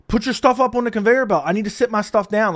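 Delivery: mildly mock an impatient complainer; shitty attitude. Man behind him in line orders him along, shitty attitude. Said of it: "with a really shitty attitude".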